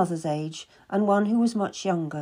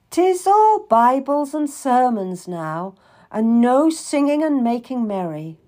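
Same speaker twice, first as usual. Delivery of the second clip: a lightly voiced merry traveller, slower and louder; grumbling traveller; 4 semitones higher, 5 dB louder than usual. Traveller complains to his tablemates, lightly voiced grumbling. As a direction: grumble it to the table, a touch hammed-up.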